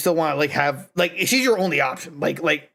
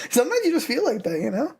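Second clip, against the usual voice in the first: laughing; 10 semitones higher than usual. Real, not acted. Laughing at own joke.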